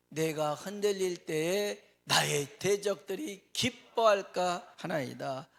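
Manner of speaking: 느리고 힘차게 읽는 성경 낭독; 회중 앞에서 장엄하게 낭독; scripture reading. Acted. Scripture read aloud. (느리고 크게 성경을 낭독하듯)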